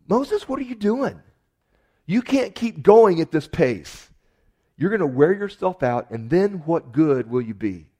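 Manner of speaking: loud, high-pitched paraphrased scolding; preacher voicing an alarmed adviser; Jethro admonishing Moses. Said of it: "I'm gonna paraphrase".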